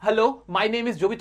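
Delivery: slow, drawn-out hello and name; slow modelling for learners; slow model line. Shown as a demonstration. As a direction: stretch every word so the class can copy. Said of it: "मेरे जैसा बोलो".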